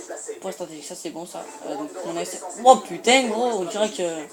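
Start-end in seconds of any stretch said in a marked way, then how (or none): 2.6-4.2 excited outburst. Real, not acted. Gamer sees new weapons unlocked.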